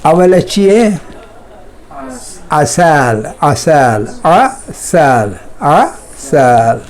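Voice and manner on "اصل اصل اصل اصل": اصل said very slowly, syllable by syllable; drawn-out drill. Shown as a demonstration. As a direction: stretch out اصل for students. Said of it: "اصل نہیں". (اصل کو بہت آہستہ کھینچ کر)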